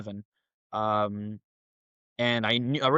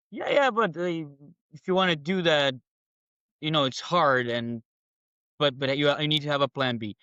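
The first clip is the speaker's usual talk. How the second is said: mock family voice; 2 semitones higher than usual. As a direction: lightly imitate the family's warning. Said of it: "It was like".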